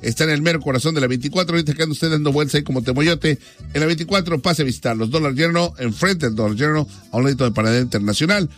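bright radio host reading ads with phone numbers; radio sponsor read. Acted. Radio host plugging a car dealer to listeners, upbeat ad read.

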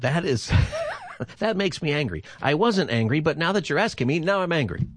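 laughing through the words, pitch up. Real, not acted. Host laughing at caller's story about being asked if angry. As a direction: giggle while protesting it makes no sense. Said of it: "host laughing at himself".

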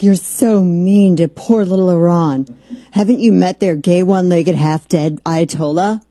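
lightly put-on scolding; mocking pity. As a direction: imitate an offended sympathizer sarcastically. Voices critics pitying Iran, mocking.

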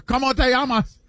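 put-on clumsy Spanish accent, half Japanese. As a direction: say it like a confused tourist. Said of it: "Why you saying it like you're from Osaka".

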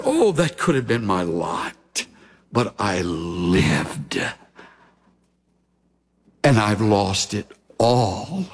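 low, slow regret with heavy pauses; mournful lament. Acted. Preacher voices Job mourning what he lost, mournful. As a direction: lament it slowly, voice sinking low.

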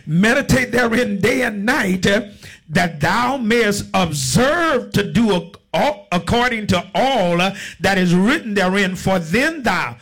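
slow, drawn-out Bible declamation; preacher's deliberate scripture cadence; scripture reading. Real, not acted. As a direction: proclaim the verse slowly to the congregation. Reads scripture to congregation.

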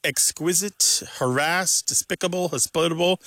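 exQUISite, haRASSED, deSPICable, hosPITable; stress on second syllable. Shown as a demonstration. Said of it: "stress in the pronunciation to the second syllable".

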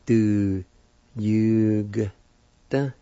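Du, yu said loudly as separate syllables; sound out Du yu. Shown as a demonstration. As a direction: sound out each piece for learners. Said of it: "with the Y U like this".

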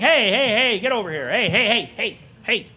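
high, repeated interrupting calls; acted referee-style intervention; referee breaking up a fight. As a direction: bark rapid heys to take control. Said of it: "And now I'm the referee".

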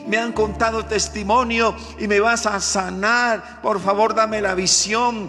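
crying out. Retold or imitated. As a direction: call out desperately to Jesus over the crowd. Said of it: "Y comenzó a gritar".

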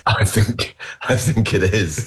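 acted tentative verdict. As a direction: play at weighing it up, slowly. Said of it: "you get here and you're like".

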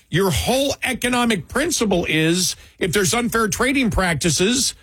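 high, incredulous mock outrage; outraged beef producers. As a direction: play the stunned producers, pitch up. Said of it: "the beef producers went".

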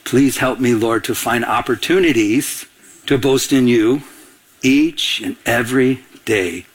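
prayer dictated. Shown as a demonstration. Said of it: "wait, you ready?".

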